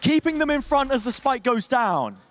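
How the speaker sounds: esports call peaking on the big hit; live caster energy; excited play-by-play. Real, not acted. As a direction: ride the action up to a climax.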